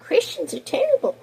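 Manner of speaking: mock whisper of a critic. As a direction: hiss it like a smug aside. Mocking Democrat voters' reasoning.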